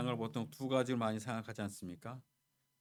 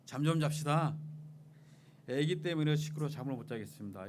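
raised-voice passenger complaint, mildly acted; mock irritated shout; 4 semitones higher, 3 dB louder than usual. Irritated passenger to man with crying baby, retold mild shout. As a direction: call out a sleepy complaint, louder at first. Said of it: "소리를 막 질렀습니다".

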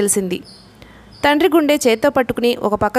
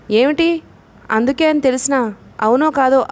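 usual speaking voice

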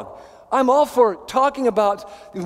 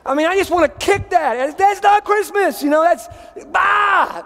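much higher and louder, ending in a bah; scornful outburst; 8 semitones higher, 3 dB louder than usual. Real, not acted. Pastor scoffing at the magic of Christmas, loud and high. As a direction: kick the sappy phrase away with scorn. Rejecting sappy Christmas phrase.

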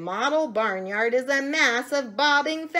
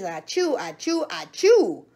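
achoos read out, building louder; spoken sneezes; 4 semitones higher, 7 dB louder than usual. A narrator's reading. The monkey blinks and begins sneezing, mock sneezes. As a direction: lightly mimic a run of sneezes. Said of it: "began to sneeze".

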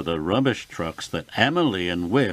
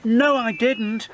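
high, cheerful whistle-like voice; cheerful whistling engine; 11 semitones higher, 4 dB louder than usual. A narrator's reading. Whiff turns up to contradict Emily, cheerfully whistling. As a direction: pipe up cheerfully, pitched right up. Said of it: "whistled Whiff cheerfully".

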